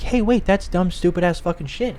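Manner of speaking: retold objection. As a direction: cut in to warn them. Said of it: "and you're like".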